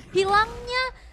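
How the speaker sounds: slow, drawn-out loud objective call; esports caster. Real, not acted. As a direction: announce the turtle like a big moment. Caster announces the sponsored objective.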